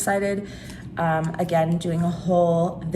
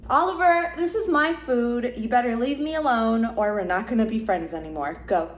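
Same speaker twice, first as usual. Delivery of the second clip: playful scolding; 5 semitones higher than usual. Pretend. Scolding pet over her food.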